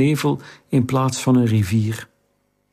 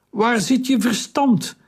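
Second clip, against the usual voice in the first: high, urgent shout over the storm; called out; 10 semitones higher than usual. A narrator's reading. Taharka shouting down to Theo in the water. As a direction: yell it up from the ship's rail. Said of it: "riep Taharka".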